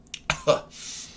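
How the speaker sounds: weak leftover cough; choking cough. Real, not acted. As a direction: cough again, still clearing the throat. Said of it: "Went down the wrong pipe".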